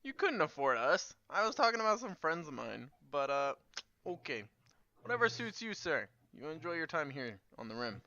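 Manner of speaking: mocking. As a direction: sneer it politely. Player voices her character mocking.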